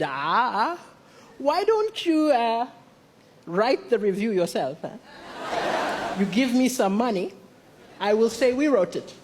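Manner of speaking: low, sly editor voice; lightly voiced editor offering a deal; a hint of a sly editor; bribe-seeking editor.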